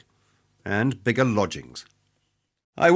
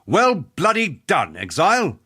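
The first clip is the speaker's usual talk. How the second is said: slow, high-pitched congratulation; hearty praise; 4 semitones higher than usual. Acted. Fighter breaking his father's cycle by complimenting the exile, hearty praise. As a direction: give slow, emphatic praise. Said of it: "here's me breaking the cycle".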